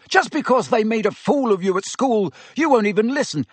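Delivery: high, heated shout; yelled. A narrator's reading. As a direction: yell back hotly. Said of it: "Harry yelled".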